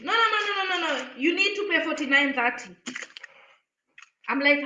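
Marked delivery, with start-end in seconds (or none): 0.0-2.7 cashier insisting. Retold or imitated. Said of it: "And she tells me".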